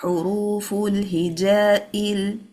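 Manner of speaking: "Huruful hijail" slow and connected, vowels held; joined words. Shown as a demonstration. Teacher joining one word to the next, slowly connected. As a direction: draw out each long vowel in "Huruful hijail". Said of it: "joining the one word to the next one".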